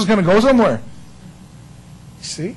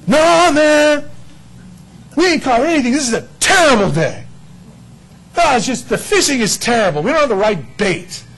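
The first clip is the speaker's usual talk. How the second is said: complaining fishermen; 4 semitones higher than usual. Acted. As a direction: moan to the stranger about the catch.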